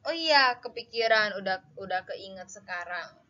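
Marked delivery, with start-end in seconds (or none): 0.1-1.7 sudden realization. Acted. Acts sudden remembering.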